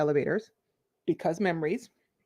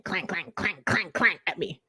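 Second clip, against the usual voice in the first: clanging brain; 5 dB quieter than usual. Retold or imitated. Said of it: "my brain is just clanging".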